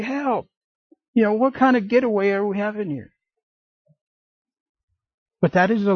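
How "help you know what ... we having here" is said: high mock cry for help, then fast; mock panic. Men on retreat attacked by bears, high mock panicked yelp. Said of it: "You're like".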